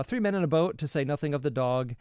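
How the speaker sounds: emphatic title repeat. Real, not acted. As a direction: hit "Three" hard as you name the book again.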